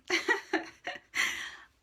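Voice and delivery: high breathy laugh at her own tears; embarrassed laugh. Real, not acted. Tarot reader laughing at herself mid-tears, breathy embarrassed laugh. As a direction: laugh off the crying, high and airy. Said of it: "I'm a mess".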